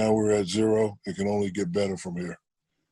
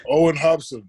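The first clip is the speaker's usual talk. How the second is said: announcing name; 6 semitones higher, 6 dB louder than usual. Real, not acted. Host introducing guest by name.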